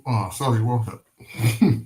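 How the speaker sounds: talking while chewing chicken; mouth full of chicken. Real, not acted. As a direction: speak around a chicken bone. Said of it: "I'm eating chicken, chicken bone in my mouth".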